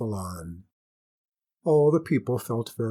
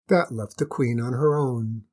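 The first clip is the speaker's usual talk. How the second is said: usual speaking voice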